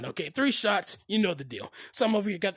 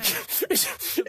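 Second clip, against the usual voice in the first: higher, breathy bird-summoning noise; eagle call; 5 semitones higher than usual. Shown as a demonstration. Storyteller showing how to call eagles, breathy high call. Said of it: "like this".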